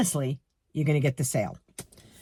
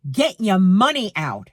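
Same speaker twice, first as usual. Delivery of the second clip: rude command; 4 dB louder than usual. Retold or imitated. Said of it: "the way she said it".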